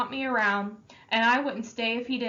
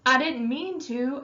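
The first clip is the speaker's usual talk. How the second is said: pleading; 4 semitones higher, 3 dB louder than usual. Acted. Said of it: "I pleaded with Derry".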